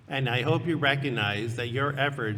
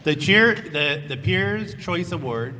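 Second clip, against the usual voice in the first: excited announcer; 3 semitones higher, 8 dB louder than usual. Acted. Announcing winner loudly.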